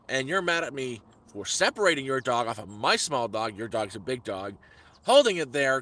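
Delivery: mild mock rant at the neighbour; angry retort. Owner retelling his outburst at the pit bull owner, mildly angry. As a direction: re-enact telling the guy off, a little heated. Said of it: "I said that, but not so nicely".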